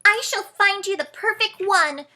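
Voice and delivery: high, hushed little mouse; mouse library voice. Acted. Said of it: "said quietly in his library voice".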